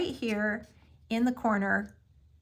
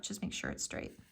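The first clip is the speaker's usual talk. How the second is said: soft whispered reminder, breath only; 11 dB quieter than usual. Real, not acted. Crafter repeating her tip to viewers, whispered.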